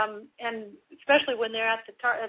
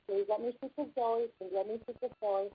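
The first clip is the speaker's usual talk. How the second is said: calm repetition; 5 dB quieter than usual. Shown as a demonstration. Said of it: "Just repeat over and over again".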